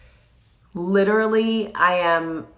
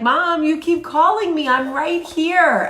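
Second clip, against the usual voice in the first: imagined dog voice; 12 semitones higher, 6 dB louder than usual. Pretend. The dog answering its worried owner, high and puzzled. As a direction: voice the dog as if he were a puzzled child. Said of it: "He was probably like".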